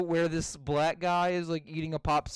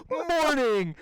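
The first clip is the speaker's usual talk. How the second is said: higher, falling cartoon greeting; Stewie; 6 semitones higher than usual. Retelling him walking out past guards, imitated high greeting. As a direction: imitate a cartoon baby's passing hello. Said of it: "He's like".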